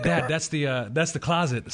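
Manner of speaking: lightly put-on pastor voice; pastor impression. Pastor pointing out the closet, lightly put-on voice. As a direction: slip into the pastor's voice a little. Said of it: "I don't know why that voice comes out".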